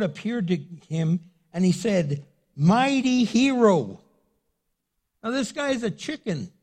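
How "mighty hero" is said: slow, proud announcement of mighty hero; a grand heavenly hail; angel's greeting. Acted. Angel hailing Gideon, slow and grand.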